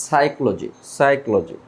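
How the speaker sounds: সাইকোলজি said "saikoloji" with no p; teacher models সাইকোলজি, p silent. Shown as a demonstration. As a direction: start সাইকোলজি on s, no p. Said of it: "পি এর উচ্চারণ হবে না".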